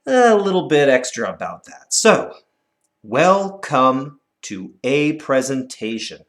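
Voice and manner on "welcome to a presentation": slow, measured recital of the line. Shown as a demonstration. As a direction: read the line slowly and evenly. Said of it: "Let's clap it".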